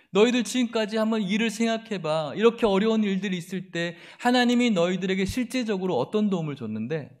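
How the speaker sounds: mocking challenge; scornful taunt. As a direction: throw doubt in their faces. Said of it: "비난하는 거죠".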